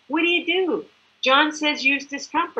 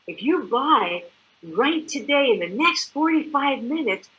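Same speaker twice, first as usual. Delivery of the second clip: mock infomercial; 3 semitones higher than usual. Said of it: "I'm joking".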